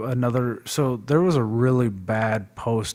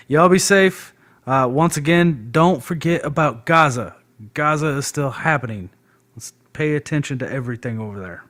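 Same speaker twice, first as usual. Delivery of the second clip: raised, emphatic goodbye; loud sign-off; 3 semitones higher, 4 dB louder than usual. Real, not acted. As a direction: call out the farewell. Signing off the stream.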